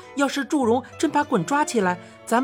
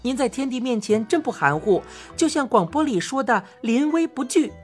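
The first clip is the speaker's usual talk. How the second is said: 夸张; 2 semitones higher than usual. Acted. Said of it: "我夸张地说".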